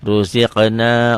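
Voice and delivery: Ruziqna with a thick ro, slow and deliberate; Arabic example word. Shown as a demonstration. Teacher showing Ruziqna to the class, slow and heavy. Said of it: "ro-nya baris di atas".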